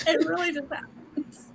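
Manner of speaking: breathy whisper under her breath; a real little whisper; soft whisper. Real, not acted. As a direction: whisper it like a guilty aside. Quiet confession to friends.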